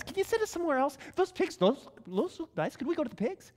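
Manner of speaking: quick, pleading demon haggling; a lightly voiced demon bargaining fast.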